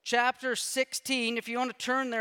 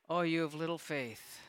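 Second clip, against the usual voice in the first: soft, gentle rebuke, voice dropped low; quietly, as if sighing over them; 4 semitones lower, 7 dB quieter than usual. Retold or imitated. Pastor voicing Jesus gently chiding disciples, quiet and soft. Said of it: "I think he said it really quietly".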